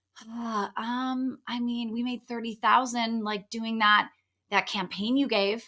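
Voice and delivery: level, joyless, hesitant, flat and unexcited. Retelling a woman telling her coach about a thirty-thousand-dollar win, imitating her unexcited tone. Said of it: "she was not excited and not happy".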